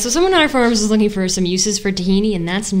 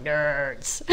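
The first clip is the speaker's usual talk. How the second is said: low mock nerd call; drawn-out nerdy 'Nerds'; Revenge of the Nerds guy; 5 semitones lower, 6 dB quieter than usual. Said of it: "the guy from Revenge of the Nerds going".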